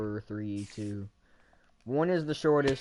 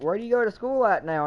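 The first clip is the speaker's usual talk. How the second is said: friend's voice; 8 semitones higher, 3 dB louder than usual. Retold or imitated. Friend voiced in retold story.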